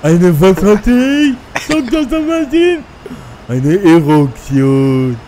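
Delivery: high, slow shocked squeal; squeaky shocked teen. Retold or imitated. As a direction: gasp it out in disbelief. Teen reacts to doctor.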